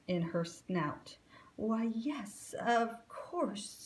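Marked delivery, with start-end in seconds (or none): 1.6-3.9 breathless, half-whispered yes; gasped. Acted. Alice gasping to the gator army, nervous. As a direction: gasp it out, frightened. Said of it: "she gasped".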